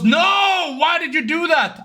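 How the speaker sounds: imitating an appalled listener; retold shocked protest. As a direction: protest in disbelief, pitched high.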